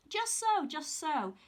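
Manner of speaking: high, loud chuckled agreement; chuckling old man. Acted. Sly old man to Jack, chuckling knowingly. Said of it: "chuckled the peculiar little old man".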